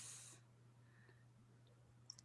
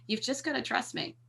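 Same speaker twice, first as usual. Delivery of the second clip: soft, tender coaxing, much softer; lovingly; 8 dB quieter than usual. Acted. Coaxing a terrified captive, soft and loving. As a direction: gently win his trust while tripping him. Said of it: "but I'm lovingly saying".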